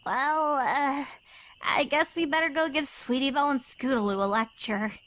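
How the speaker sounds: hesitant, mildly unsure; a bit uncertain. Acted. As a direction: trail in unsure of herself. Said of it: "a bit uncertainly".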